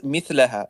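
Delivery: مثلها read MITH-la-ha, an a vowel on the lam; mithlaha reading. Shown as a demonstration. Debater citing other readers, مثلها said as mithlaha. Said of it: "other readers who read it as".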